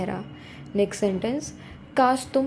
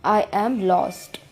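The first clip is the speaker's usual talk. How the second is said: slow model reading; much slower than usual. Shown as a demonstration. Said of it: "teacher models the sentence slowly".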